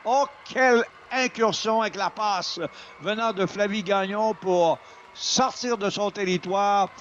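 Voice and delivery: excited. Real, not acted. Praising goal play.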